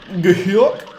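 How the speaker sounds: goofy cartoon yokel yelp; goofy hick. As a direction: botch a southern sheriff into a goofy cartoon. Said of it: "that was just goofy".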